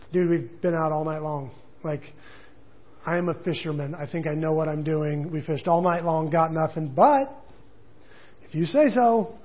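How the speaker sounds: dry, sarcastic reply that jumps up at the end; sarcastic Peter. Retold or imitated. Peter answers Jesus with sarcastic disbelief. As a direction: give a skeptical fisherman's grudging "fine, if you say so". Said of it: "you can almost hear the sarcasm in his voice".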